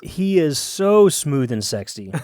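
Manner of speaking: slow, swooning gush. Real, not acted. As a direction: swoon over the voice. Gushing over Irish voice.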